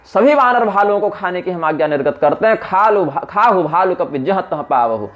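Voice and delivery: high angry order to devour them all; Ravana's fury. Acted. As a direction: roar out the decree. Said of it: "Ravan को और क्रोध आ गया".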